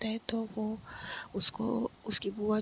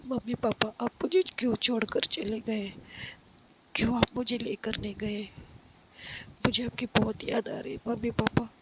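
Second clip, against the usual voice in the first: a mild hint of crying out to lost parents; tearful plea; 2 semitones higher than usual. Pari on the terrace calling her dead parents, tearful plea. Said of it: "रोने लगती है ज़ोर-ज़ोर से".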